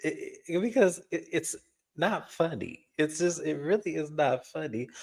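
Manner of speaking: high, squeaky, fighting off laughter; trying hard not to crack up; stifled giggles. Real, not acted. Giggling while insisting not funny.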